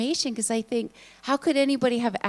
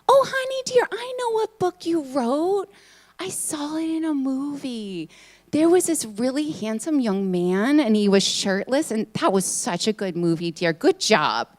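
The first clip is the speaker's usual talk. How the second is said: put-on 1 sweet old aunt; 2 semitones higher than usual. Aunt voiced again.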